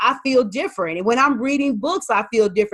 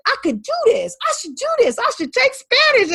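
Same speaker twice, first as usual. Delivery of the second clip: excited; 13 semitones higher than usual. Retold or imitated. Excited self-talk deciding.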